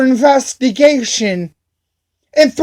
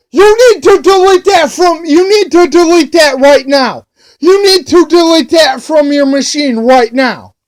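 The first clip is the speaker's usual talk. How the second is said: retold yell; 2 semitones higher than usual. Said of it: "yells at me at the top of his lungs".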